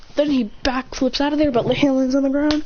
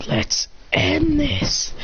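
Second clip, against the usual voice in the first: slow hero line; 4 semitones higher, much slower than usual. Acted. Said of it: "Then he says".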